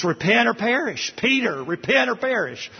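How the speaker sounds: high, ringing preacher's cry; urgent call to repent. Acted. Preacher echoing the apostles' call, high urgent cry. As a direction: proclaim it like the apostles.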